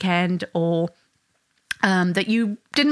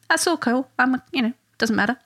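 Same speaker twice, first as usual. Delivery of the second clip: lightly voiced laid-back child, a little higher; a hint of a child shrugging it off; easygoing child; 5 semitones higher than usual. Child happy with both halves, breezily accepting.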